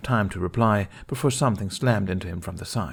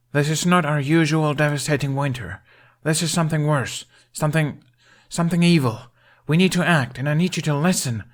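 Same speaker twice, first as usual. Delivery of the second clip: rousing address; 8 semitones higher, 5 dB louder than usual. A narrator's reading. Hiccup addresses the whole hall.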